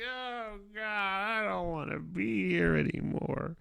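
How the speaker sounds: retold mortified groan. The boy leaving the ladies' room, laughing and mortified. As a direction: laugh out the wish to vanish. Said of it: "I was like".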